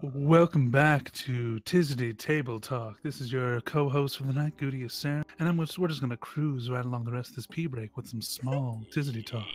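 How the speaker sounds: show host intro. Acted. Co-host welcomes listeners back to the show, announcer voice. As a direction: roll out the show opening like a host. Podcast host opening segment.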